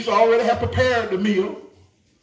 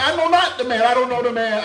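Peter denying; 4 semitones higher, 4 dB louder than usual. Acted. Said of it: "He denied him three times".

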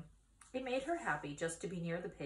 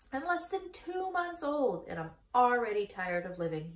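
1 weary pig; 5 semitones higher, 4 dB louder than usual. Acted. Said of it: "he said".

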